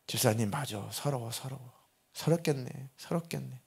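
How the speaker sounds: soft, consoling repetition; hushed pastor comforting a grieving congregant; retold soothing sympathy. Pastor voices comforting a tearful caller.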